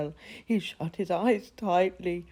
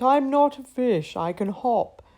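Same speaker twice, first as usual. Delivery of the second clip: excited; 5 dB louder than usual. Acted. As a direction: bubble over with joy. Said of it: "shrieked Gorf with excitement".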